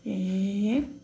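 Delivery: "Elefante" as E, LE, FAN, TE with long pauses; split into syllables. Shown as a demonstration. Teacher separating the word for pupils, syllable by syllable. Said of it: "Como é que eu separo elefante".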